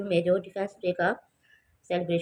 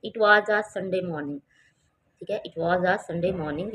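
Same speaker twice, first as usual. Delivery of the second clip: a slow, spaced-out story line; slow reading aloud; much slower than usual. Shown as a demonstration. Teacher reading the paragraph to children, slow. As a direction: read it carefully for the class.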